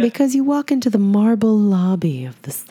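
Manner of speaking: hushed soothing spa guide. Pretend. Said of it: "I'm gonna apply my spa voice".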